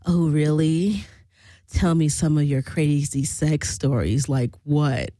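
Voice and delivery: low-voiced imitation of a curious creep; intrigued man. Swinger asking the narrator about her sex stories, intrigued. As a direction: lightly mimic a man fishing for details. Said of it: "really intrigued by me".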